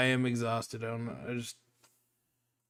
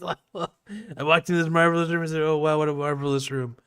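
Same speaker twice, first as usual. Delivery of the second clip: Trump impression; 3 semitones higher than usual. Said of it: "the Shane Gillis impression".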